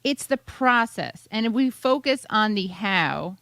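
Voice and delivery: slow, halting mock political answer; stretched, searching parody of a politician; imitated politician. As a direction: mimic a politician groping through buzzwords. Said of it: "then she has this funny".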